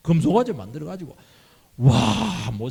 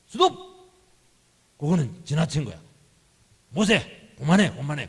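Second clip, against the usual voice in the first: mock-stern interruption, raised pitch; 책망하듯. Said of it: "막 책망하고 막". (말을 끊고 나무라듯)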